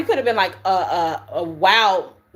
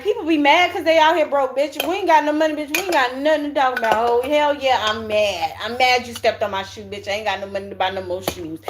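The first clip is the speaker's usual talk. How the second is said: mock angry broke person; 3 semitones higher than usual. Mocking broke people's gripes to her viewers, sassy rant. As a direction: mimic a broke person griping at strangers.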